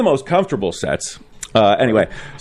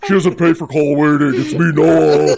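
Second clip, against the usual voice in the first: lightly hammed-up boy on the phone; mock deep-voiced teen; 2 semitones higher than usual. Noah insisting he is thirteen, lightly voiced mock teen. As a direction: protest as the kid, stretching out the final words. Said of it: "'cause of the deep voice".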